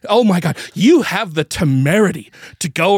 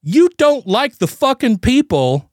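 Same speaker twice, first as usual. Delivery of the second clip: retold rant; 3 semitones higher than usual. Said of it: "and I'm like".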